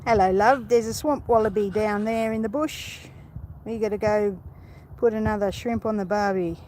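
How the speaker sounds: hammed-up Aussie accent; cheesy tourist-style take on Australian; bad Australian accent. Shown as a demonstration. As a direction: do a badly faked Australian accent. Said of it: "my really bad Australian accent".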